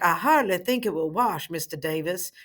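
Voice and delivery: put-on a light Southern accent for Britannia. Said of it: "I guess I gave her a Southern accent".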